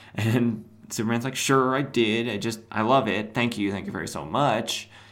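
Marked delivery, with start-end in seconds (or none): 1.4-4.9 acted-out sarcastic tone. Retelling a scene, acting out one character's sarcastic thanks to another. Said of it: "Sarcasm, obviously".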